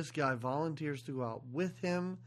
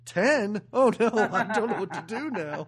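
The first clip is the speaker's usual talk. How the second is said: mock panicked writer; 2 semitones lower, 5 dB louder than usual. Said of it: "King got to this part and went".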